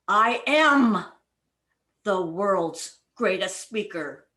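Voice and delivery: am said loud, then a pause; stress on am. Shown as a demonstration. Coach shows stress on am to the club. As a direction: lean hard on am. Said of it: "one word at a time as if it is the most important".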